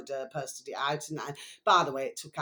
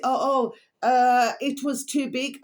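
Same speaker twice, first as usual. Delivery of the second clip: higher, slower mock neighbour's voice, with a sob in it; imitating the neighbour; 6 semitones higher, 5 dB louder, slower than usual. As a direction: play the neighbour, sheepish and near tears.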